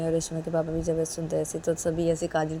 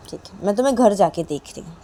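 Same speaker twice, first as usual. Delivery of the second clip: louder, firm warning; stern mother threat; 2 semitones higher, 6 dB louder than usual. Acted. Mother warning daughter about home, louder and firm. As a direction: warn her firmly. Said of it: "काजल की mummy बोलती".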